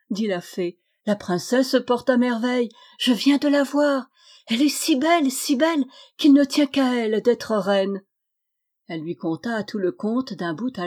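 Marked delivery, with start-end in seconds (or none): 1.1-8.0 higher, eager and bright with joy; delighted fairy. Acted. Fairy tells the grieving queen good news, higher and delighted. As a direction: gush over how lovely the princess is.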